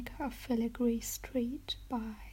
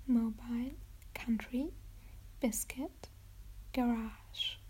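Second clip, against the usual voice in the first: ASMR whisper. Acted. Reading the accent word list to viewers, whispered.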